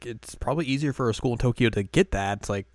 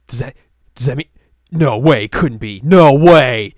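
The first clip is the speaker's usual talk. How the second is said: building louder fangirl squeal; excited fangirl; 3 semitones higher, 14 dB louder than usual. Retold or imitated. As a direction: squeal with disbelief. Fangirls hoping to meet idol.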